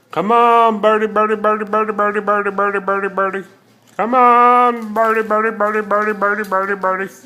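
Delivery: calling a bird over; sing-song bird calling; coaxing a wild bird. Real, not acted.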